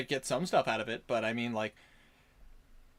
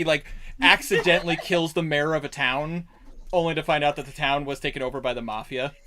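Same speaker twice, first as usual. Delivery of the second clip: ordinary talk, nothing marked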